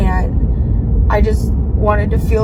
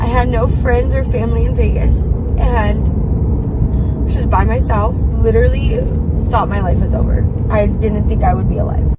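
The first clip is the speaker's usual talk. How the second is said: crying. Real, not acted. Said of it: "I'm crying again".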